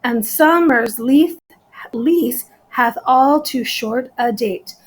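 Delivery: slow, separated syllables; deliberate reading for a syllable count. Shown as a demonstration. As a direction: measure out the verse one syllable at a time. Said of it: "So ten syllables in every line".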